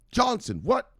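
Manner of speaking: high, loud-edged mock disbelief; incredulous boss. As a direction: call out the name, aghast. Boss reacts to employee's outfit.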